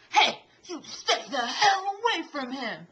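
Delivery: put-on retelling the old man's warning while laughing; mock the threat, half laughing; laughing through it. Retelling the scooter man's second warning, laughing. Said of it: "and he goes".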